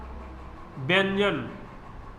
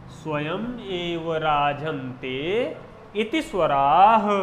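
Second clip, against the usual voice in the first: slow Sanskrit recitation; 2 semitones lower, much slower than usual. Shown as a demonstration. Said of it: "परिभाषा बताता हूँ".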